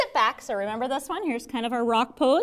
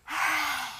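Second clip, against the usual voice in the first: lion breath; 5 dB quieter than usual. Shown as a demonstration. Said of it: "let's do it again".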